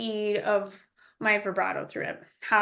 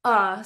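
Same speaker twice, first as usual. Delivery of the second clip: hard clipped uh; throat stop uh; glottal stop uh; 2 semitones lower than usual. Shown as a demonstration. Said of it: "with a hard, uh, "uh" sound".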